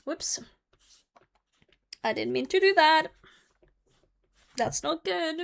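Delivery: high flustered apology; flustered oops. Real, not acted. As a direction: caught off guard, pitch up. Just spilled a drink.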